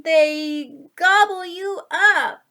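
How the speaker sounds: spring the scare on the listener; spooky gobble line. A narrator's reading. Storyteller scaring the child with a big finish.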